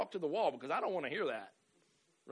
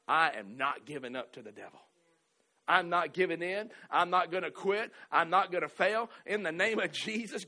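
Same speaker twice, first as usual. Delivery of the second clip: defiant declaration; 2 semitones higher, 6 dB louder than usual. Acted. Preacher voicing defiant believer's declaration.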